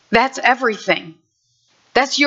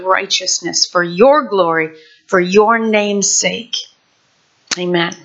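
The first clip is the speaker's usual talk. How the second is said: prayer. Acted. Opening prayer.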